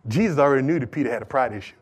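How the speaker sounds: low, soft and quick; quick delivery. Real, not acted. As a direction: toss the point off rapidly. First quick take of repeated point.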